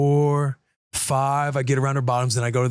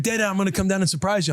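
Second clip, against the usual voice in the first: put-on quick, higher voice of an eager little girl; little daughter voice; 6 semitones higher, faster than usual. Dad imitating his little daughter announcing a surprise, fast and high. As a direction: chirp it fast like an excited toddler. Voicing young daughter Rue.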